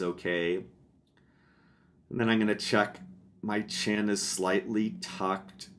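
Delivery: unhurried, softened meditation guide voice; calm body-scan narration with long settling pauses; guided meditation. Real, not acted. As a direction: gently talk them through a body check, pausing between steps.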